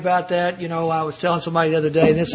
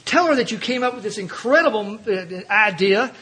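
mild mock inner shout, pitched up; egging himself on to take credit; inner voice urging; 4 semitones higher than usual. Part of him urging him to claim the credit. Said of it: "a part of me screaming".

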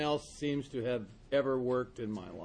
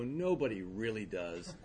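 deadpan; 3 semitones lower than usual. Retold or imitated. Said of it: "without missing a beat".

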